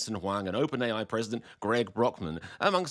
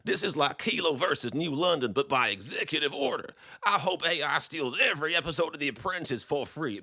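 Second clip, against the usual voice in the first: slightly higher put-on reading voice; mock online poster; 3 semitones higher than usual. Voter posting about Trump's order, lightly mocked indignation. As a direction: lightly caricature an indignant commenter. Reads a post in voice.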